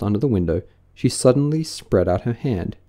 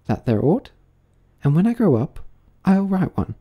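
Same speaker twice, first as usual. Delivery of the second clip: lightly voiced, higher-pitched musing girl; pensive young Alice; 5 semitones higher than usual. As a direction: wonder to yourself in a lighter Alice voice. Alice's own musings in the story.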